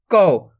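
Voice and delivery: कौ with a firm push on the au glide; pushed au vowel. Shown as a demonstration. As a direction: put some force into कौ, gliding through au. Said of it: "थोड़ा जोर लगा देंगे". (कौ में थोड़ा जोर, औ का उच्चारण)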